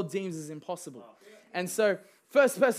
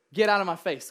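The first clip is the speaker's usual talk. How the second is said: a louder laughing get out of my face; half-joking shout of Get out of my face; laughing command; 5 dB louder than usual. Shown as a demonstration. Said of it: "we need to be a people that say".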